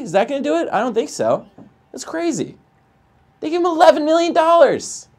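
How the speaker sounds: high, loud outraged disbelief; Jerry Seinfeld outraged voice. Real, not acted. Gamer ranting to chat about the Angels, high outraged voice. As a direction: pitch way up in mock outrage at the Angels. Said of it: "I got, like, a Jerry Seinfeld outraged voice right now".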